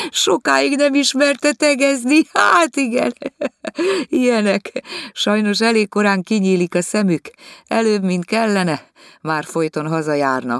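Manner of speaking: high, loud, lively complaining lady; lady of the house complaining to guests; complaining hostess. Acted. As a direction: grumble grandly about servants.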